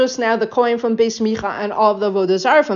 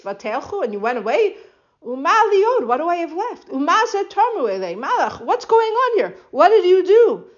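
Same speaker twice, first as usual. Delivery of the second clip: higher-pitched, aggrieved outcry at the thieves; upset protest; 4 semitones higher than usual. Retold or imitated. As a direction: plead like a man robbed of his god. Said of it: "He says".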